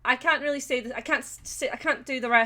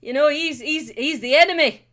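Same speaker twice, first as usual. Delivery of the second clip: mock outrage; 6 dB louder than usual. Recalling a telling-off about an Englishman, mock outrage. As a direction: scold like an outraged patriot, hammed up. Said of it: "I was".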